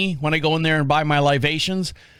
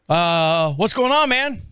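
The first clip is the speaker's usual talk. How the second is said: friendly call; 2 semitones higher, slower than usual. Retold or imitated. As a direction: call out to the old man. Calling out to old man.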